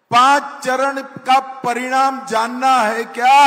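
rising question thrown to the crowd; rally call to the crowd. Shown as a demonstration. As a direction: call out to the crowd, expecting a roar back. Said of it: "अरे जोर से बोलो".

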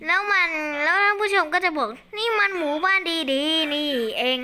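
mock amazement. Voicing viewers' amazed reaction.

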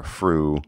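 "fru" with an F for the TH; TH fronting. Shown as a demonstration. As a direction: through said as "fru", F at the start.

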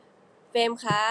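เฟรมคะ said slow, back at her normal pitch. Shown as a demonstration. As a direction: drop the cute lift for a plain name, เฟรมคะ. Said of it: "ก็จะต่ำลงมา".

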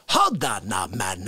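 deep low hold on; low growl reply. Acted. Low answering catchphrase.

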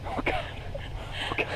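high panicked squeak; terrified squeak. Real, not acted. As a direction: gasp it out in fright. Monkey on her.

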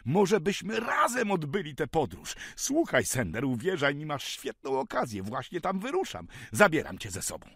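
loud, high, eager persuasion; excited urging. A narrator's reading. Benjamin urges Sender to travel with him, excited. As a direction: sweep him along with enthusiasm.

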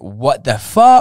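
loud, slow stunned disbelief; shocked exclamation. Retold or imitated. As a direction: react like you saw the price tag. Retold reaction to prices.

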